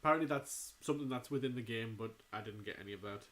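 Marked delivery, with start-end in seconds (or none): 2.0-3.2 softer, quicker throwaway repeat; deflated aside under the breath; quiet muttered aside. Real, not acted. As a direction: mutter it to yourself, fast and low.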